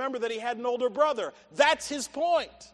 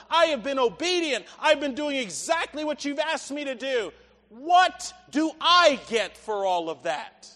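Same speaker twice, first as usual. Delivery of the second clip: slow, louder aggrieved pleading to his dad; self-pitying complaint; 3 dB louder than usual. Acted. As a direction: lay out every grievance, slow and hurt. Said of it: "he was distracted by self".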